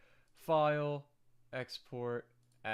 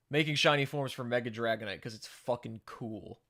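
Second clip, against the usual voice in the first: YouTuber intro voice; 7 dB louder than usual. Pretend. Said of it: "the whole YouTuber voice thing".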